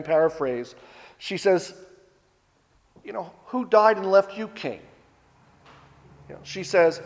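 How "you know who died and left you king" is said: sarcastic. Retold or imitated. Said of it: "responds to him again sarcastically".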